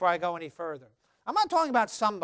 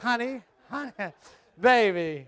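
sultry voice; 3 dB louder than usual. Shown as a demonstration. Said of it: "I'm making my wife get hot".

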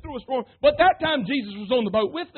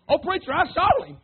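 higher, mildly voiced scared lady; frightened churchgoer; 7 semitones higher than usual. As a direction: play the spooked church lady lightly. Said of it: "she's scared of ghosts".

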